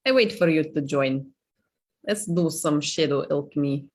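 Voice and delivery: playful mock Russian accent; lightly performed Russian accent. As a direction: put on a Russian accent for fun. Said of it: "fun with my Russian accent".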